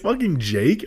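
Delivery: high, incredulous retold complaint; mock outrage. Complaining that Jake told the news first, mock outraged disbelief. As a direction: throw it out high in comic disbelief. Retelling annoyance at spoiled news.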